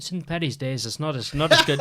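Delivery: put-on Irish accent. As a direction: have a second, fuller go at an Irish accent. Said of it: "I can't do an Irish accent".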